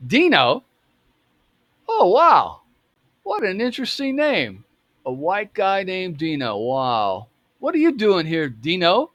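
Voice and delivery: high-pitched mock amazement at a name; sarcastic. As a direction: imitate a man sarcastically marvelling, pitched well up. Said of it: "says it in kind of a sarcastic way".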